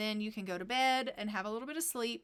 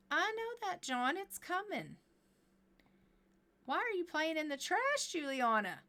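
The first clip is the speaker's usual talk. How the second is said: high, strained scolding mom voice; exasperated mother; 6 semitones higher than usual. Acted. Mother scolding her husband and the child in the trash, high and exasperated.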